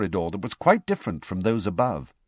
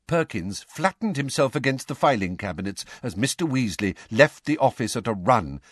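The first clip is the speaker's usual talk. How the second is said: ordinary delivery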